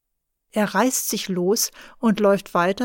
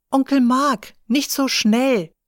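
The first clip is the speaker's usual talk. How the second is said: calling out; 4 semitones higher, 4 dB louder than usual. Acted. Calling after running uncle.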